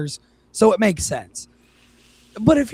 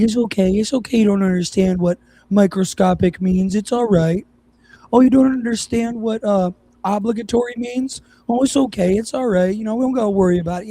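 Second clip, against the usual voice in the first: sing-song pity pitched higher and a bit louder; mock-soothing; 4 semitones higher, 3 dB louder than usual. Mocking readers who want sympathy, condescending coo. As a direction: pat them on the head with your voice. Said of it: "tell you that they feel sorry for you".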